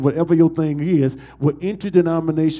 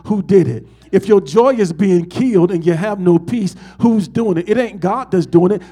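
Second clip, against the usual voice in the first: louder, rising preacher's cadence; full-force preaching; 3 semitones higher, 5 dB louder than usual. Acted. Pastor pressing the congregation on who stole their joy, loud preaching. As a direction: hammer each question home to the church.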